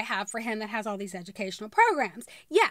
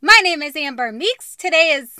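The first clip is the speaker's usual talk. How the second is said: energetic YouTuber intro; vlog intro; 3 semitones higher, 13 dB louder than usual. Shown as a demonstration. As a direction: hype up the viewers. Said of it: "Try it again".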